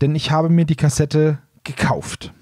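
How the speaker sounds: ordinary talk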